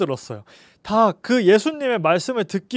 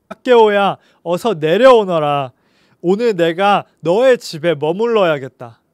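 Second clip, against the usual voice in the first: loud, slow call up into a tree; 6 dB louder than usual. Acted. Jesus calling Zacchaeus down from the fig tree, loud and slow. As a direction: call him down, firm and kind.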